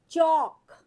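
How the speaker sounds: चीज़ called out high and loud; teacher's call. Shown as a demonstration. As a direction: announce चीज़ brightly to the class. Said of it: "teacher announces the blended word". (ऊँची आवाज़ में चीज़)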